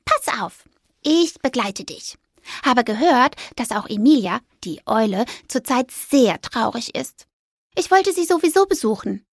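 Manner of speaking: high squeaky mouse voice; little mouse. Acted. Mouse urging the ghost on, high and squeaky.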